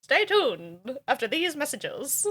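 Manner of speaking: playful announcer sign-off. Acted. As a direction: draw it out like a network bumper. Mimics TV ad-break announcer.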